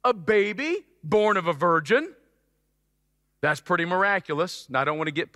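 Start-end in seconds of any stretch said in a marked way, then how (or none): 0.0-2.1 excited God voice. Acted. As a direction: announce the miracle with building wonder. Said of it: "So God says".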